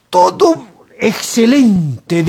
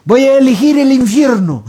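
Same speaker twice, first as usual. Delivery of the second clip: raised, declamatory voice; grandiose proclamation; 5 semitones higher than usual. Acted. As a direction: announce a momentous choice. Acted politician proclaiming his grand decision. (declaración solemne y teatral)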